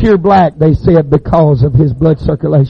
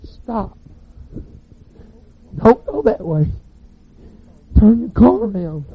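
warning call; 6 semitones higher, 4 dB quieter, slower than usual. Retold or imitated. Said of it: "I was saying".

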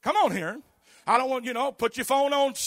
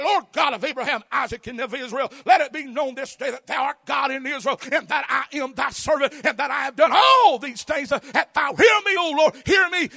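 Elijah praying. Acted. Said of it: "he said".

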